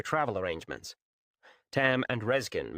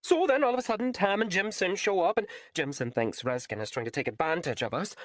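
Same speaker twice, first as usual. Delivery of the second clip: put-on lightly raised, hesitant young woman; flustered Raylan; 8 semitones higher than usual. A narrator's reading. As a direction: stumble through the embarrassing tale. Raylan goes on.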